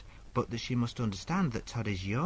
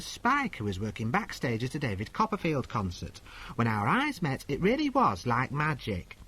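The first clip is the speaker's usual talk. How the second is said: higher put-on voice of a confused young woman; letter-writer voice; 4 semitones higher than usual. Agony aunt voicing Cleo's letter, higher put-on voice. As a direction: read it as the dithering girl, pitched up.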